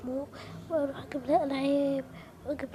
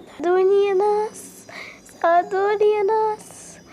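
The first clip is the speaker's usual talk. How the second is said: calling out; 2 semitones higher, 4 dB louder than usual. Acted. Girl calling for help.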